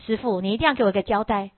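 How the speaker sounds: fast, then loud, indignant demand; angry demand. Acted. Disciple storms in to demand an answer, angry. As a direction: confront the master, demanding answers. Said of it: "就生气呀".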